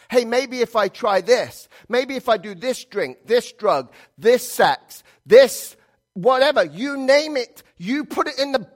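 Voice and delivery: eager craving. Retold or imitated. Preacher voicing a sinner chasing drink and drugs, rising eagerness. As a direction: grasp at each new temptation with rising hunger. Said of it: "this is what you said".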